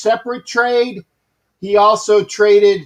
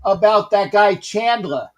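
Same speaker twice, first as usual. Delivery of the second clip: put-on Bronx accent; 2 semitones higher than usual. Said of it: "'cause I'm trying to do the Bronx accent".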